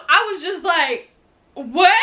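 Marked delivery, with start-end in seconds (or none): 1.5-1.9 retold shock. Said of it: "I was not prepared for this".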